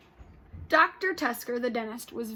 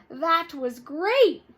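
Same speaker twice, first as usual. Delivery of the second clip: louder, slow delighted cry; thrilled kid after sliding, louder and slow; excited; 6 semitones higher, 11 dB louder, much slower than usual. Acted. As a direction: relish the fun. Kids after slide.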